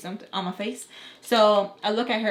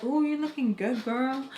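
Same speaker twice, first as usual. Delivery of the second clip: higher, playful self-compliment; a drawn-out hype-yourself coo; self-hyping; 4 semitones higher, slower than usual. Retold or imitated. Admiring her new makeup to herself, playfully flattering.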